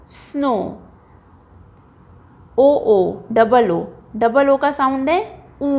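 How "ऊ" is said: ऊ held as a long "oo"; long vowel ऊ. Shown as a demonstration. Teacher answering what double O sounds like, a long drawn-out ऊ. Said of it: "long vowel sound में".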